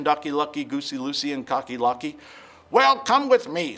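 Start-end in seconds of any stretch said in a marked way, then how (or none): 2.7-3.8 sly fox. Acted. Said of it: "said Foxy Loxy".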